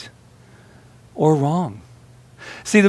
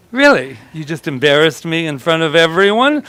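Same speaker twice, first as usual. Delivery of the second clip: mock livid; 3 semitones higher than usual.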